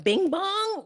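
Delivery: "bing bong" drawn out slowly; questioned intonation. Shown as a demonstration. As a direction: stretch out "bing bong" as a doubtful query. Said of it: "say it with the right intonation".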